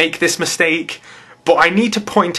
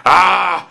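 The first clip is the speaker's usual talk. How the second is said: loud, venting "aah"; exasperated groan; 3 semitones higher, 3 dB louder than usual. Real, not acted. YouTuber fed up with false beliefs, exasperated. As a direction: let the frustration out in one cry.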